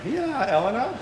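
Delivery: high singled-out call to someone over there. Real, not acted. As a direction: pitch it up to hail a daughter. Calls out to daughter in audience.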